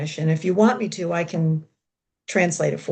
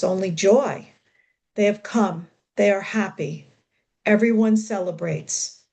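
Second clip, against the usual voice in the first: measured recital of short lines; deliberate, evenly paused poem delivery; poetry reading. Acted. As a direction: read it as verse, phrase by phrase. Reads English translation of poem.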